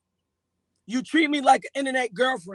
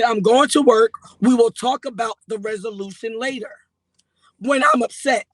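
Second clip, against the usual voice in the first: firm raised voice, retelling the fight; louder retold retort; 6 dB louder than usual. Retelling the fight to Paris, louder firm retort. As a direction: snap back loud, leaving for work.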